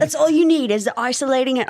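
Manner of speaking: brisk, lightly put-on Australian accent; half-hearted Australian impression. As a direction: rattle it off in a mock Aussie voice. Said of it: "I don't know why I'm Australian".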